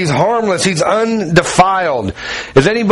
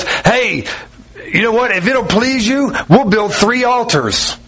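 higher-pitched, mildly eager proposal; eager Peter; 4 semitones higher than usual. Retold or imitated. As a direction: act out an eager suggestion, pitched up. Acts out Peter jumping up.

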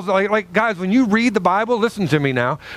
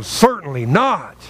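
exclamatory reading; 2 semitones lower than usual. Shown as a demonstration. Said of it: "the exclamations and the question marks".

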